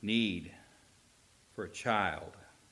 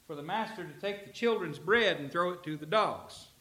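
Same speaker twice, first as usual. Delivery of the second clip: Jesus declaring; 9 semitones higher, 4 dB louder than usual. Acted. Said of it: "I'm paraphrasing".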